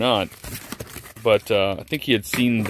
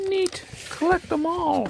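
put-on high, quiet creepy little kid voice; creepy child; 4 dB quieter, slower than usual. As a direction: squeak it out like an eerie toy child. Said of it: "Don't know why I use that voice".

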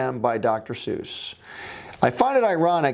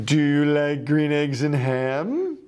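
eager Sam voice; slower than usual. Acted. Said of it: "Sam I am comes back and says".

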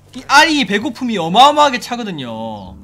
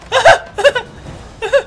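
panicked laugh-cry; 6 dB louder than usual. Real, not acted.

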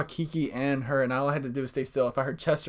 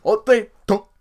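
mock robotic voice; 5 semitones higher, 8 dB louder than usual. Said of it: "Google Translate and be like".

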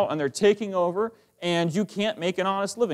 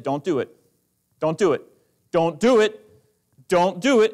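stern parent warning; 5 dB louder than usual. Acted.

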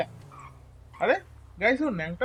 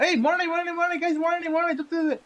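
much higher, urgent cries; excited; 9 semitones higher, 3 dB louder than usual. Real, not acted. Gamer seeing the rabbit escape, excited and higher. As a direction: it got away, chase it.

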